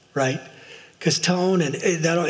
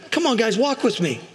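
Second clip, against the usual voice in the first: rallying call; 8 semitones higher than usual. Real, not acted. Closing call to congregation.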